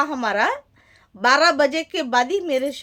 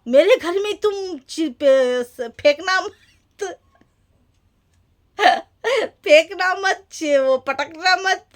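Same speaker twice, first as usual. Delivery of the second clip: higher, louder imitation of a shouting husband, breaking into laughs; wife laughingly imitates husband yelling don't throw things; mock husband shouting; 4 semitones higher, 4 dB louder, slower than usual. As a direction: ham up the husband's yell through giggles. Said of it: "चिल्लाए मेरे शौहर को".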